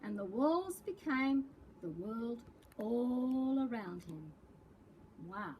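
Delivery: lively picture-book read-aloud; reading to children. A narrator's reading. Librarian reading a picture book to preps, storytelling voice. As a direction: read the story to young kids with big expression.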